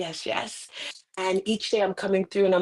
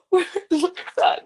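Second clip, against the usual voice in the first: frantic plea; 10 semitones higher, 4 dB louder, faster than usual. Retold or imitated. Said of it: "and I'm like".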